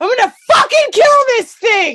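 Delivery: shrill, very high, very loud full-volume scream. Retelling a hunting partner screaming while running after a bird: imitating someone screaming. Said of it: "she screams out".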